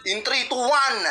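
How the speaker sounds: big build-up into the countdown; hype announcer. Acted. Host announces the battle round.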